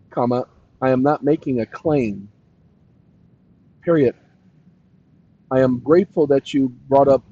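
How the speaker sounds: measured dictation with long pauses. Real, not acted. Streamer dictating a message to a chatbot, dictation. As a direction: dictate it phrase by phrase, punctuation spoken.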